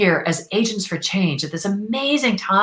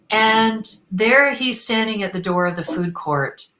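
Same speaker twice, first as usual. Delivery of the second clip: normal talking voice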